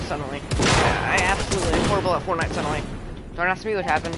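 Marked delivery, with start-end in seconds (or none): 0.5-2.8 loud exasperated rant; frustrated outburst. Real, not acted. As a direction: vent about losing loudly. Frustrated outburst after dying.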